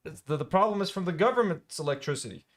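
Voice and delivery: lightly voiced defensive neighbour; a hint of a whiny excuse; generator guy. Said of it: "the generator guy's saying".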